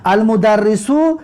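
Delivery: المدرسو said slowly syllable by syllable, kasra under the doubled r; slow teaching demo of المدرسو; careful Arabic pronunciation. Shown as a demonstration. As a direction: spell out المدرسو slowly as al-mudarrisu.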